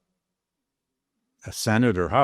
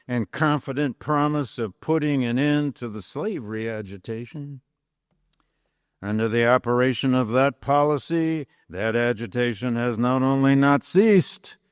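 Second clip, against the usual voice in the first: formal oratory reading. Acted. Lecturer reading Lincoln's speech to class, measured oratory. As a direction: read it as Lincoln addressing a convention. Reads the House Divided speech.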